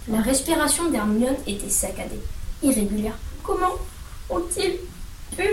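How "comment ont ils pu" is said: high, soft and halting, words split by sobbing pauses; sobbing, broken up. A narrator's reading. Hermione, shocked for Hagrid, sobs it out brokenly. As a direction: choke each word out between sobs. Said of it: "sanglota-t-elle".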